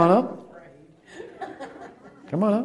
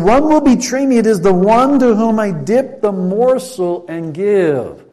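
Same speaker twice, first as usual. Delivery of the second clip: quoting Jesus; 5 semitones higher, 4 dB louder than usual. Acted. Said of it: "he said".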